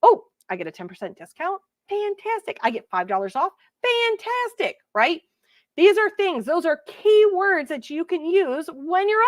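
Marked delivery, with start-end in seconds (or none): 0.0-4.8 delighted customer. Pretend. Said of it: "people love that".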